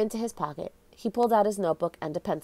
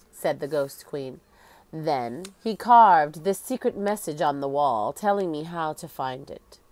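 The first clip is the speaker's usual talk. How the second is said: lightly voiced ghostly queen, solemn; hollow echoing voice; 3 semitones lower than usual. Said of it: "She spoke in a hollow, echoing voice".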